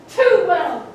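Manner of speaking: loud grief-stricken cry; anguished cry. Acted. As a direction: burst out in pain. Constance in grief.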